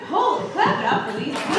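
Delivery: high excited call to clap; rally the crowd gleefully; excited cheer. Real, not acted. Comic urges the crowd to cheer the couple, excited.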